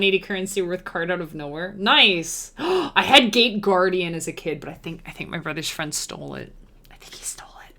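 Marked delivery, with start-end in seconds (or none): 4.6-7.7 whispering. Real, not acted. Secret about a stolen card.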